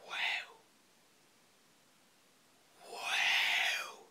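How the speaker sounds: breath-only, drawn-out wow; whispered wow. Pretend. Host hyping the main event, long whispered wow. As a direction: whisper it in hushed mock awe.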